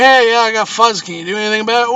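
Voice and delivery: mock complaint call, voice pushed up; caller to company. Customer phoning the cable company, mock-insistent.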